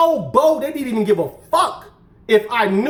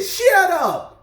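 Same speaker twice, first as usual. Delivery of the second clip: put-on country hillbilly accent; 6 semitones higher than usual. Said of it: "big old thick country hillbilly accent".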